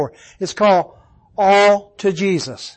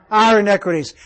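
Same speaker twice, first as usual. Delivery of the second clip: "Our" leads with the weight; "Our" emphasized over "iniquities"; stress on our; faster than usual. Shown as a demonstration. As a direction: answer firmly, stressing "Our". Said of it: "emphasis on the plurals".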